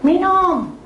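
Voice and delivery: put-on high, sing-song coaxing like to a child. Wife coaxing her sick husband, high and sing-song.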